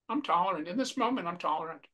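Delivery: softly spoken affirmation, dropping away; quiet self-affirmation. Shown as a demonstration. Teacher modelling an affirmation to say to oneself, quietly. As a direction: say it softly, as if to yourself. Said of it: "say it quietly to yourself".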